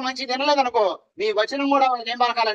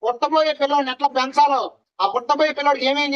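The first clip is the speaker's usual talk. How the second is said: louder, rising preacher's call; preaching cry; 3 semitones higher, 3 dB louder than usual. Acted. Preacher to congregation about Manoah's prayer, loud cry. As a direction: cry out the plea from the pulpit.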